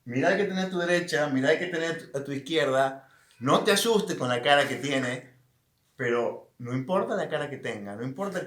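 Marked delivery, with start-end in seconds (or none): 0.0-5.3 louder, fast, rallying the congregation; preaching to the church. Acted. Pastor urging the congregation to look at their neighbours, loud and fast. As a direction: call it out like from the pulpit. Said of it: "Si estuviera en la iglesia, te diría".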